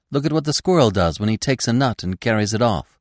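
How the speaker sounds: eager explaining. Acted. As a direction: break in brightly to explain. Bambi breaks in to explain.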